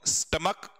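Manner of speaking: स्टमक repeated as "stum-uk", ch as k; स्टमक, ending on a clean k; correct pronunciation. Shown as a demonstration. Teacher to students, repeating स्टमक with a k sound. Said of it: "क्या बोलेंगे बताओ?".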